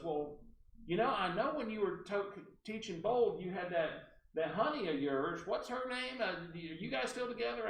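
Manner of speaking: put-on rambling high-pitched caller's accent; Barbara Delano. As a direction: mimic her accent as she fishes for a name. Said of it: "I have to use her accent".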